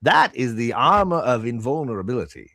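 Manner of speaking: lightly voiced shopkeeper, proud of his wares; a hint of a bragging merchant; boastful shopkeeper. Shopkeeper showing off the armor of invulnerability to customers, lightly boastful. Game master plays shopkeeper.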